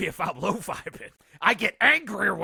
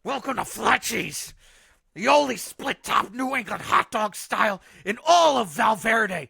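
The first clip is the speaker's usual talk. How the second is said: angry hot dog owner; 5 semitones higher than usual. Acted. Caller plays hot dog owner.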